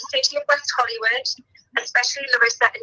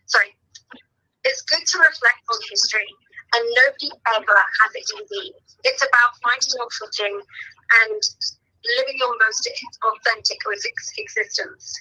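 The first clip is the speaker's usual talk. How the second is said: tearful. Real, not acted. Crying during award speech.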